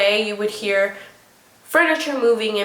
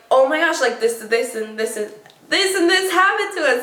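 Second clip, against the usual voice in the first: retold frantic telling; 3 semitones higher than usual. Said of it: "we're scream".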